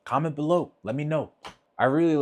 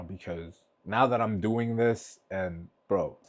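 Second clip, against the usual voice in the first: holding back tears; 4 semitones lower, slower than usual. Real, not acted. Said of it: "Stop crying".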